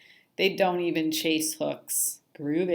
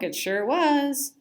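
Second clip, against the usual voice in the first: slow high agreeing fish; 6 semitones higher, 4 dB louder, slower than usual. Acted.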